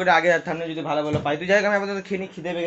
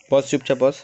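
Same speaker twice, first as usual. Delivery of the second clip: loud order to sit still; sharp, raised-voice telling-off; firm command; 8 dB louder than usual. Real, not acted. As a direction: scold a naughty little one, louder. Ordering the little ones to sit.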